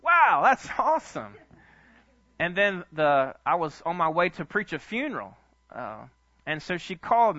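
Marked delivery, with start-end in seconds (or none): 0.0-1.3 high, loud, slow drawn-out wow; amazed wow. Retold or imitated. Pastor hearing about twenty-five thousand, loud slow amazed wow. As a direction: savour the news with wide-eyed delight. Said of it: "I'm like".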